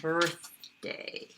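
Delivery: "Birthday" with a quiet airy th in the middle; teacher demo of the unvoiced th in "Birthday". Shown as a demonstration. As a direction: breathe the th in "Birthday", no buzz. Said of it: "It's a quiet, unvoiced one".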